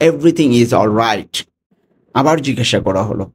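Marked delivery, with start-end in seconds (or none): 0.1-1.3 slow. Shown as a demonstration. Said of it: "ইংরেজিতে".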